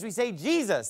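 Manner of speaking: Jesus said English style, as JEE-zus; English pronunciation. Shown as a demonstration. Preacher showing the congregation how English speakers say the name. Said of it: "if we're speaking English".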